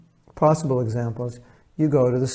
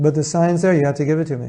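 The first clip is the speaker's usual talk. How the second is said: irate customer; 3 semitones higher, 4 dB louder, faster than usual. Acted. Customer insisting on the sale price at the till, mildly irate. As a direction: push back like an annoyed customer. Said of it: "he's getting all irate".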